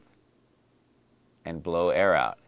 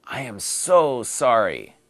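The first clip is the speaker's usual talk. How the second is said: apologetic dialogue line; 2 semitones higher, 5 dB louder, slower than usual. Shown as a demonstration. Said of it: "today's dialogue".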